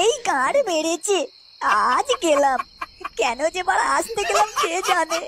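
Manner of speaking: discovered lover lamenting his doom to himself; comic despair. Acted. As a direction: wail as if all is lost, half laughing. Caught hiding by the husband.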